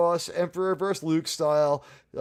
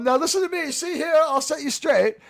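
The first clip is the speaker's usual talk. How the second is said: loud, high mock lecture; hammed-up stern scolding; bad acting; 10 semitones higher, 5 dB louder than usual.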